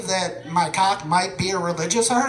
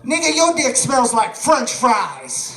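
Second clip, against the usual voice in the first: nonchalant; 5 semitones higher, 4 dB louder, slower than usual. Retold or imitated. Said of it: "very nonchalantly and goes".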